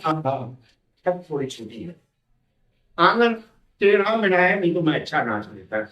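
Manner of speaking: a hint of a whiny dancer making excuses; excuse-maker. Teacher acting a poor dancer's excuse, lightly mocking. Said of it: "तो इस तरह के बहाने बनाए जाते हैं".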